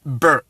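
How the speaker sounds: "ber" as a short, low beh; Akan letter sound. Shown as a demonstration. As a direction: say "ber" as one Akan syllable. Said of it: "is gonna be pronounced as".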